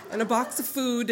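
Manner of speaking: laughing. Real, not acted. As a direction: let the laugh carry the words. Laughing about the sweet tea.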